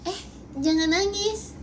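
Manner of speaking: high, mocking fake sympathy with a laugh; sarcastic. Shown as a demonstration. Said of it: "itu sarkas banget".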